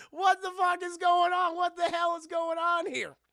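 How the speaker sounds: high, loud mock scolding; hammed-up outraged mother; irate mom. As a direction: burst in demanding answers. Mom bursts in on the kids.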